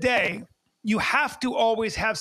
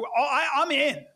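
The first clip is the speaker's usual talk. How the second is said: laughing, pitched up, sold on it; 6 semitones higher than usual. Real, not acted. Podcast host laughing about trusting an honest expert, laughing. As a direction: chuckle it out, instantly convinced.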